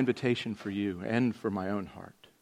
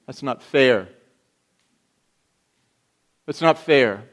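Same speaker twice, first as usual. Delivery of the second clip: loud aggrieved whine at God; mock complaint to God; complaining believer; 2 semitones higher, 9 dB louder than usual. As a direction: protest like a wronged child. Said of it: "Maybe something like this".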